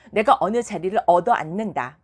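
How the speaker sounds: ordinary talk, nothing marked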